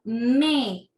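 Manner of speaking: metáfora split into me, ta, fo, ra with a pause after each; syllable by syllable. Shown as a demonstration. Teacher counting syllables for pupils, metáfora in four separated beats. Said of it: "¿cuántos golpes de voz".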